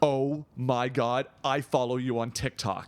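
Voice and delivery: slow, drawn-out starstruck awe; wide-eyed fan. Retold or imitated. Staring fan spots the TikToker in public, wide-eyed awe. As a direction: imitate a staring fan, stretching the words.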